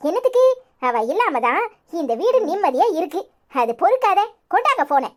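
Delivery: scornful, swooping rant. Acted. Hostile woman objecting to the phone call, angry ranting. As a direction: scold everyone within earshot. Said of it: "இங்க நின்னுக்கிட்டு ஏதாவது கத்திக்கிட்டு இருந்த".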